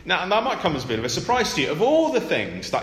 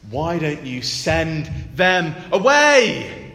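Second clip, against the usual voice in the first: coaxing suggestion; 7 dB louder, much slower than usual. Retold or imitated. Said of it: "and they say to him".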